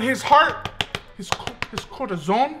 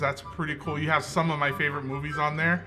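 low, softened polite-guest voice; smoothly compliment your host to escape trouble; smooth flattery; 6 semitones lower than usual. Acted. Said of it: "I'd be like".

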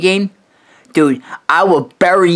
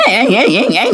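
mock voice crack; 6 semitones higher than usual. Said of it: "Your, your, your fucking voice".

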